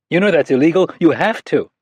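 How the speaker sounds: put-on high, earnest child voice; a young girl scolding a grown-up; little girl. Narrator voices young girl Anna.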